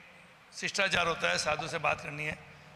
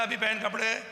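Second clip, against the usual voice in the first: rude order; 4 semitones higher than usual. Retold or imitated. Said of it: "इस भाषा में बात करी है".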